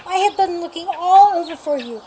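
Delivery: man relieved at finding George; cried out. A narrator's reading. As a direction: let the relief spill out. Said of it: "the man cried".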